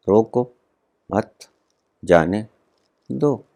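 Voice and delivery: a separate pause after each word: रोको, मत, जाने, दो. Shown as a demonstration. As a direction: count out रोको - मत - जाने - दो one at a time. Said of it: "शब्द वही चार के चार". (रोको, मत, जाने, दो अलग-अलग)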